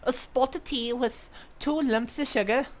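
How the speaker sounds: put-on high posh British accent asking for tea; hammed-up British tea order. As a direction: lift the voice into a prim British teatime accent. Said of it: "I can actually do a decent, uh, British accent".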